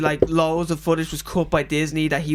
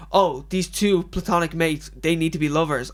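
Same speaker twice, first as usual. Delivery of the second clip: mock woke fan. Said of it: "would be like".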